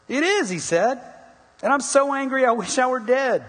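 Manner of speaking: Jonah's reply, high and loud; indignant outburst. A narrator's reading. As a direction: pitch it high and shout it in mock fury. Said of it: "I love this response".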